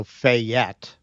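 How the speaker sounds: Fayette with weight on -ETTE; stress second syllable. Shown as a demonstration. Co-host shows Fayette stressed on the second syllable. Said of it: "with the emphasis on the second syllable".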